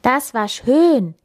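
slow, dreamy sighed appreciation; contented sigh. A narrator's reading. Friend savouring the book's ending, contented sigh. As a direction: sigh it out slowly, pitch lifted. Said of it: "seufzte er".

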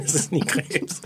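whispered. Real, not acted. Echoing the rule under breath.

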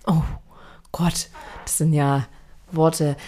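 slow awed whisper. Real, not acted. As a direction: whisper it, impressed. Whispered awe at words.

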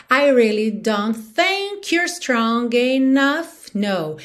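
slow, drawn-out lyric; song rhythm. Shown as a demonstration. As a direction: recite slowly to the song's beat. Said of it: "te dando no ritmo da música".

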